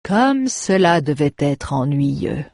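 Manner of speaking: slow, mocking drawl; mock the captain's pride; baron's lazy slow mockery. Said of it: "se moqua le baron".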